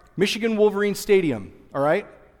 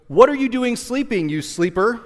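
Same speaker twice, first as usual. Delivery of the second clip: higher, louder mock scold; scolding captain; 5 semitones higher, 5 dB louder than usual. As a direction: wake him up with a jokey scold.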